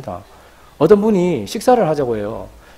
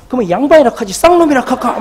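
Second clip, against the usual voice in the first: high-pitched indignant comeback; retold angry sarcasm, pitched up; acted quarrel retort; 7 semitones higher, 4 dB louder than usual. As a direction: fire back in a mock row.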